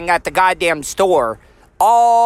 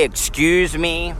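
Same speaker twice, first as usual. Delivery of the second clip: sarcastically; 3 dB quieter, slower than usual. Retold or imitated.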